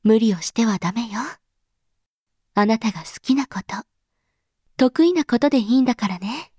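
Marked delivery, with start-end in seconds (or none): 2.5-3.8 tender whisper. Acted. Mother reassuring her child, whispering tenderly. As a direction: hush it gently, like a secret.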